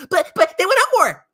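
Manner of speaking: lightly voiced whiny investor; mocking whine. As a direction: whine like a dumb buyer. Mocking hype-chasing investors.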